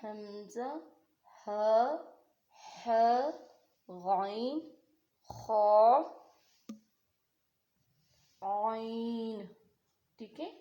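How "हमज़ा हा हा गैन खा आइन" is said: हमज़ा हा हा गैन खा आइन said louder, from the throat; each letter named louder, आइन drawn out very slowly; reciting throat letters. Shown as a demonstration. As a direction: drill the six letters, stretching आइन. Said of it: "और छठा कौन सा था".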